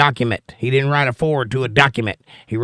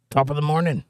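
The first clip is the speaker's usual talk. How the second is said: Irish greeting voice. Pretend. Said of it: "Oh, that's Irish".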